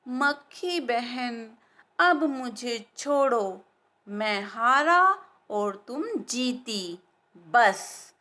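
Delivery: slow, weary giving up; tired surrender. Acted. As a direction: drag the words out, worn out and beaten. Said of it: "शेर ऊब गया, थक गया". (थका हारा शेर, धीरे धीरे हार मानता हुआ)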